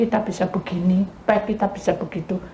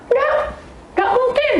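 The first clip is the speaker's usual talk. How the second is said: disbelief. Retold or imitated. Refusing to accept husband's death.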